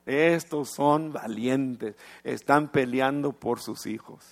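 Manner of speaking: emphatic prayer. Retold or imitated. Preacher quoting his prayer, emphatic.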